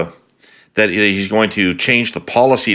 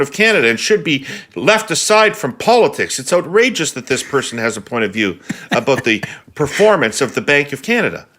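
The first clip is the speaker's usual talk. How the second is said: ordinary Canadian voice; 3 semitones higher than usual. Retold or imitated. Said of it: "ordinary Canadian voice while shouting these words".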